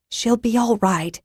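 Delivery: calm a worried man down; reassuring. A narrator's reading. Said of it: "Zinna assured the worried guard".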